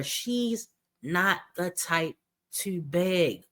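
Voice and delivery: slow, mock quote of the streamer; slow, sarcastic imitation of her words. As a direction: stretch it out in mockery. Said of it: "Remember she said that?".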